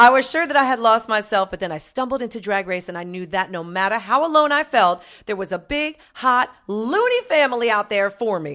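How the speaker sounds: lightly camped-up letter reading; a hint of a gay fan's voice; Desmond. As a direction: read it out with theatrical emphasis. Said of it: "read it in Desmond's voice".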